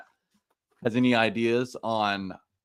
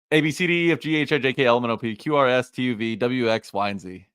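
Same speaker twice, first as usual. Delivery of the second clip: fast alphabet. Shown as a demonstration. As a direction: rattle off the letters quickly. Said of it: "say the alphabet as fast as you can".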